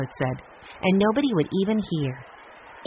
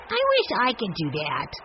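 put-on little boy; 4 semitones higher than usual. A narrator's reading. Benny voiced as little boy.

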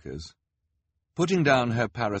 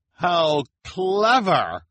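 much higher, louder, slow gush; much higher, louder thrilled reporter; excited; 13 semitones higher, 8 dB louder, much slower than usual. A narrator's reading. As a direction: gush with delight. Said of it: "in excitement".

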